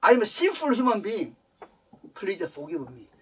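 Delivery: tearful apology. Retold or imitated. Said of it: "눈물 흘리면서".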